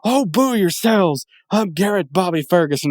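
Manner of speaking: villain voice. Retold or imitated. GBF answering the booing crowd, hammed-up villain voice. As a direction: sneer it back like a giant-headed arcade villain. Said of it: "he turns around and he goes".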